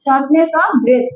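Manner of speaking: shortness of breath drawn out very slowly; slow dictation. Shown as a demonstration. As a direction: dictate it word by word at a crawl. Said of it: "শর্টনেস বানান পারেন?".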